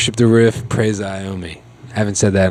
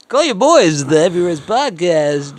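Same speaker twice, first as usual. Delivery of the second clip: loud, high hyped-up radio DJ; radio jock voice; 8 semitones higher, 6 dB louder than usual. Acted. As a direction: boom it out like a late-night radio jock. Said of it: "You're the great fucking shitty radio jock voice".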